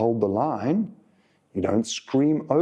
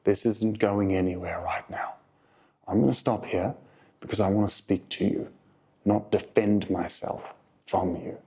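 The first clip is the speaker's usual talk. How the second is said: calm. Shown as a demonstration. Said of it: "You just calmly say".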